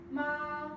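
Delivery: "ma" held high and level; Mandarin first tone. Shown as a demonstration. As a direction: sing "ma" on one high flat pitch. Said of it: "So for tone one".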